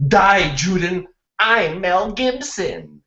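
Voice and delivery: mock German accent. Shown as a demonstration. Classmate showing how to fix the joke, confident German accent. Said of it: "you would have to go like".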